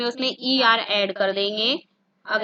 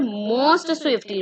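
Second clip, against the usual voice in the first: "most swiftly" very slowly, each word spelled out; slow and deliberate; much slower than usual. Shown as a demonstration. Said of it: "because here we are comparing all of the boys".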